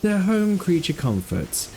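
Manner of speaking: slow, hushed wildlife narrator; nature documentary. Acted.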